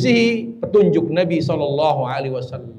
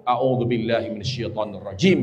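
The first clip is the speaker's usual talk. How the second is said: quiet recitation; 10 semitones lower, 7 dB quieter than usual. Shown as a demonstration.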